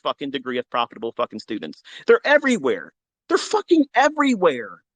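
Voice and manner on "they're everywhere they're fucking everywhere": excited boast. Real, not acted. Boasting about his students.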